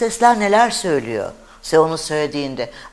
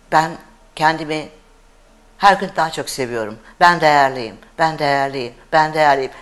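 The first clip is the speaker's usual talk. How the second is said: flat, lower, rote recital; robot voice; 4 semitones lower than usual. Shown as a demonstration. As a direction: rattle it off like a machine, no feeling. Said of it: "robot gibi söylediği zaman".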